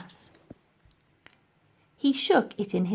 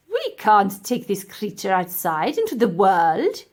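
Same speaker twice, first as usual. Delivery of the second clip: professor voice; 5 dB louder than usual. Acted.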